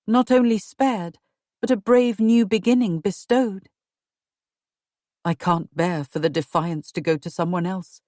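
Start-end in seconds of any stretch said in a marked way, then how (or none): 5.2-8.0 low husband mutter under his breath. Acted. Edward complaining to his wife, low and grumbling. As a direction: grumble it lower to yourself. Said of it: "Edward muttered".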